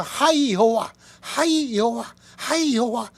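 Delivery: high, loud praise shouts; exultant cry. Acted. Preacher voicing Old Testament praise, ringing shouts. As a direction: call out to God with joy. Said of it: "구약에서".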